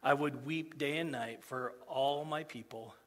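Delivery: solemn scripture reading. Acted. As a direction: read the prophet's grief to the church. Rereads the scripture passage.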